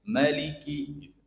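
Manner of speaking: 'Maliki' with a short first vowel. Shown as a demonstration. Teacher showing some imams' reading, short ma. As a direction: say 'Maliki' without holding 'ma'. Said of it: "sebagian imam bacanya pendek".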